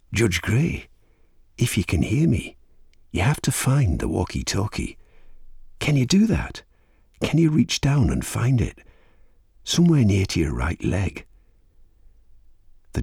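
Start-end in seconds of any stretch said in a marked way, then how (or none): 0.1-11.3 higher-pitched voice of an unseen caller, not raised; lightly voiced caller, pitched up, urging; quiet, muted caller. A narrator's reading. Unseen caller guides the trapped judge, quiet and muted. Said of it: "The voice was quiet and muted".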